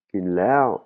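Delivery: "Kinlao" with a high arched "lao"; high-pitched tone. Shown as a demonstration. Teacher points out the red lao, high tone on "lao". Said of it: "il est rouge, il est aigu".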